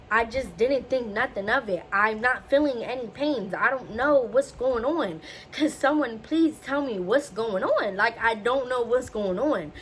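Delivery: emphatic retold plea, word by word; exasperated pleading. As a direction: retell frustrated begging for answers. Pleads with doctor for answers.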